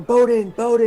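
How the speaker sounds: high, loud, urgent calling. Acted. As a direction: call the name twice over a crowd. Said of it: "And she's calling".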